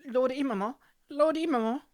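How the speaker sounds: loud, high calls to wake him; calling out. Acted. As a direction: call his name urgently.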